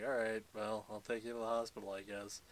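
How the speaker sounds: imitating a hero caving to pressure; reluctant giving in. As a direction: give in half-heartedly, voice sinking at the end. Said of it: "caves to peer pressure".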